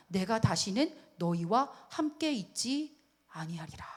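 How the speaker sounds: slow, solemn divine verdict; grave, fearsome warning. Acted. God's frightening warning to the people, grave. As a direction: let each phrase hang ominously. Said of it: "이 말이 너무 무섭지 않습니까".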